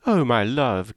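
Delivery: a light, fond call to her husband; fond cry to husband. Acted. Mrs Palmer calling fondly to her husband. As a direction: call out sweetly to him. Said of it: "cried Missus Palmer to her husband".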